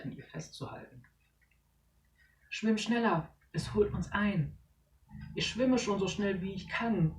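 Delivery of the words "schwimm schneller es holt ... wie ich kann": higher, breathless panic; fleeing for their lives; panicked urging. Acted. Kids fleeing the net, panicked.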